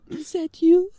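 sudden loud shocked question; a jolt of disbelief; surprised. Acted. Son suddenly recognises his long-lost mother, surprised shout.

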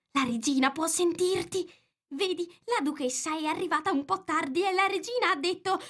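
very high, anxious little voice; frightened rabbit. A narrator's reading. Frightened Rabbit warns Alice of the Queen, high and anxious. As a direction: warn and explain anxiously, pitched high. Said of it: "bisbigliò il coniglio spaventato".

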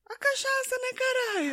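high excited exclamation. Real, not acted. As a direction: squeal it with glee. Excited joke about booze.

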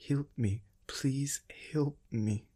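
slow, whispered begging; a broken mother's last plea; mother begging strangers for help, whispered and broken; desperate plea. A narrator's reading. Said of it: "the emotion in her voice".

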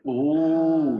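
loud delighted ooh; excited ooh. Real, not acted. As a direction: savor the ooh. Excited exclamation.

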